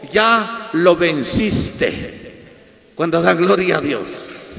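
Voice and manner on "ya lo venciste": measured, very slow proclamation; retold divine voice, slow and restrained; voice from heaven. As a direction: draw out each word of a solemn pronouncement. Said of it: "escuché la voz y me dijo".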